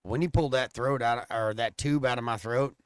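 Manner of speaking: low, quiet and hesitant; mock-quiet embarrassed admission; low confession. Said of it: "I said".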